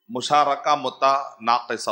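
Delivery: مشارکہ متناقصہ read out slowly, syllable by syllable; slow careful reading. Shown as a demonstration. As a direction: spell the term out slowly for students. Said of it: "اس کا صحیح pronunciation ہے". (آہستہ آہستہ، ہر حرف واضح)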